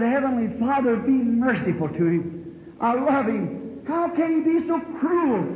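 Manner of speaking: a pained plea breaking upward; anguished prayer. Retold or imitated. Retold anguished prayer while turning away.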